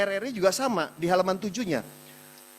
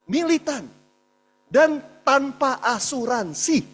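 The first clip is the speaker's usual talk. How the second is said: fervent emphasis; 6 semitones higher than usual. Real, not acted. Praising the contributors' dedication.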